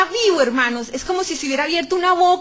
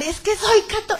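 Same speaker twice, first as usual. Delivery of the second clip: higher, raised pleading call; retold cry; 6 semitones higher, 4 dB louder than usual. Woman begins crying out her faith in the pit, raised retold cry. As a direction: start a cry and break off. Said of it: "empezó a gritar".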